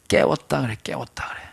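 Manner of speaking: 깨웠다 그래 whispered under the breath; a whispered aside to the congregation. Real, not acted. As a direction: breathe it out as a secret.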